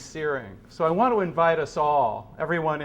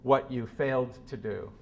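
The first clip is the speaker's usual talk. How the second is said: measured, grave reading of a philosophy text, often falling soft at line ends; solemn reading; 3 dB quieter than usual. Acted. Speaker reading Sloterdijk's words to a hushed room, grave and measured. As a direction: read it like a sermon, unhurried and heavy. Reads Sloterdijk passage aloud.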